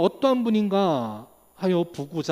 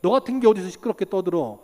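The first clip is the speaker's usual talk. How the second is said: crowd's rebuke; 3 dB louder than usual. Retold or imitated. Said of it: "많은 사람들이 꾸짖어서".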